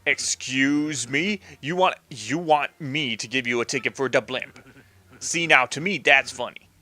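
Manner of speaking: lightly voiced New York Italian mob boss; mock indignation in a loose New York Italian accent; a touch of New York Italian wise guy. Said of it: "I should do this New York Italian accent thing".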